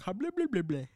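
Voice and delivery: mumbling old man impression; mock Biden rambling; imitating Biden. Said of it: "He's like".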